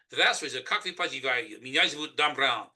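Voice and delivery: Russian spoken with a thick Southern redneck accent. Shown as a demonstration. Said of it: "That's Russian in a redneck accent".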